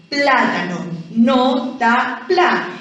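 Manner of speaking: "Plátano", then "no", "ta", "pla" split out backwards, stressed "pla"; syllable by syllable. Shown as a demonstration. Teacher splits plátano for pupils, separated syllables ending on stressed "pla". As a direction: count back syllables "no, ta, pla" one at a time. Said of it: "cargamos la voz en pla".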